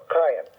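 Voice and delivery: "Ayin" started deep down in the throat. Shown as a demonstration. Teacher demonstrating the letter, throaty onset on Ayin. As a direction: sound "Ayin" from low in the throat. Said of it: "much deeper down within your throat".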